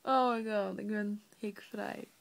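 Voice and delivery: elated relief; excited. Real, not acted. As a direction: celebrate a small win. Celebrates being hiccup-free.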